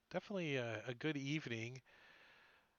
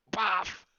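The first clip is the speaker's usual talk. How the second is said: mock impact noise; 5 semitones higher, 7 dB louder than usual. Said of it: "He's like".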